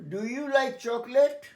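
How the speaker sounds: "chocolate" as two syllables, chok-let, not cho-ko-let; slow clear teacher model of "chocolate" with a rising question; chocolate said as chocolet. Shown as a demonstration. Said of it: "উচ্চারণটা লক্ষ্য করো, চকলেট, চকোলেট নয়".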